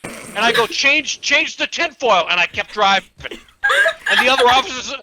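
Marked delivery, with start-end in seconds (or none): 0.7-2.3 loud, raised shouted advice; calling back. Acted. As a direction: holler it back to him. Calling back to yelling man.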